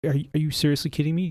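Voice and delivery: rapid irritated repeat; exasperated. Retold or imitated. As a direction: push the question harder, fed up. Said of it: "I'm like".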